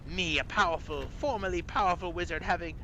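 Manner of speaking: high, aggrieved British voice; whistly British accent. Acted. Toothless former wizard tells of stolen tooth, high British accent. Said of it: "he whistles his S's as you hear them".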